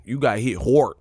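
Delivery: Cali drawn "hard", said like "hort"; Cali accent. Shown as a demonstration. Comedian showing how Cali says it, Cali accent. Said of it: "that's how we say in Cali".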